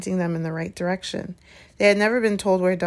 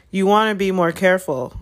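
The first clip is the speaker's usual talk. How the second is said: louder, measured warning; a hint of a threatening teacher; menacing Snape; 5 dB louder than usual. Snape cautions the children, menacing.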